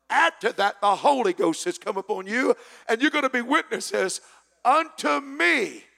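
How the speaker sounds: thundering sermon delivery; full-force preaching. Real, not acted. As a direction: preach it out with fire to the congregation.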